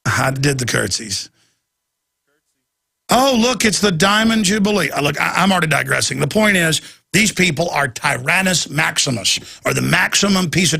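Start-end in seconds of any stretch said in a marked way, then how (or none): 3.1-4.9 sarcastic fake delight, pitched higher; sarcastic squeal about the Jubilee; mock delight. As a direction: gush like a royal fan, mocking. Mocking royal fans.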